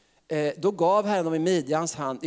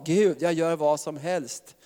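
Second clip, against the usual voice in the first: mild desperate prayer. Retold or imitated. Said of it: "när man ropar så där desperat".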